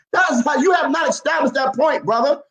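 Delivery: heated insistence on the point. Real, not acted. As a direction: raise your voice in argument, pitch a bit up. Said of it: "Why are you raising your voice?".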